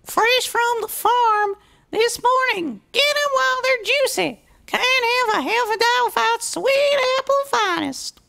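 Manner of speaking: high-voiced young farm filly hawking, then a disgusted gasp; eager young filly. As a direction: sell hard to every passer-by. Apple Bloom's sales pitch.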